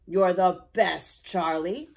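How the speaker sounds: slow, loud thankful cheer; grateful shout. Acted. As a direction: call it out with relief. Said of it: "Rex shouted".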